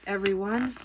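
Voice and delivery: loud, high warning; urgent call. A narrator's reading. Mister Watson warning everyone in the careening car. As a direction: brace them for the crash.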